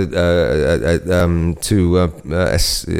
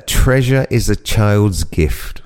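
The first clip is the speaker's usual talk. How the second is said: poem reading; much slower than usual. Acted. Reading his poem aloud.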